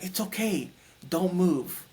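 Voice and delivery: gently reassuring, lifted in pitch; loving reassurance. Retold or imitated. Pure love telling the patient not to move, lovingly reassuring. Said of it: "It was more like love".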